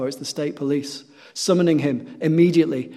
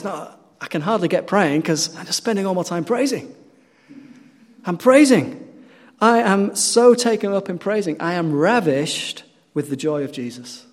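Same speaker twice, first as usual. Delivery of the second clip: joyful; 4 semitones higher than usual. Retold or imitated. Prisoner's joyful reply to his mother.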